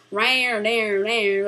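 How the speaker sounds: lightly mocking Southern twang; mock Southern accent. Reviewer mimicking the miscast actor's talk, mock Southern accent. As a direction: imitate a Southern drawl in nonsense syllables. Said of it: "the typical Southern accent".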